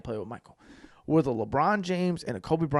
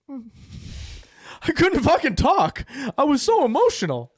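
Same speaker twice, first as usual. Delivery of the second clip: mock choked up; 10 semitones higher, slower than usual. Recalling being too choked up.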